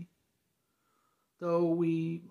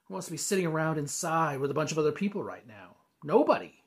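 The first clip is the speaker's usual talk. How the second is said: louder, building in pitch to the end; exasperated venting; 2 semitones higher, 7 dB louder than usual. Acted. Venting about lost event business.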